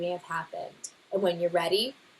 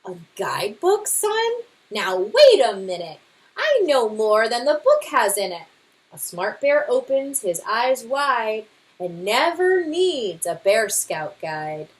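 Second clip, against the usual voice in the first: louder, blustering know-it-all father bear; boastful Papa Bear; 3 semitones higher, 5 dB louder than usual. Acted. Father bear brushing off the scouts' guidebook, boastful. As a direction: scoff at the book with bravado.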